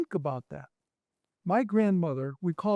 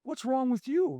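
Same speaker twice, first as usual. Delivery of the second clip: higher imitated gruff grandmother; blunt grandma, higher; 6 semitones higher than usual. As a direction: snap it like a tough Italian nonna.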